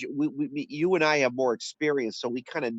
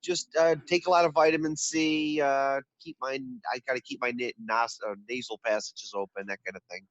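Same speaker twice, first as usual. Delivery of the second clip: congested, stuffy-nosed voice; talking with a head cold; under the weather voice. Real, not acted. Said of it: "I can actually hear it in your voice".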